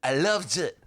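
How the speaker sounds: put-on Simon Cowell British accent. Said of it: "That was my Simon".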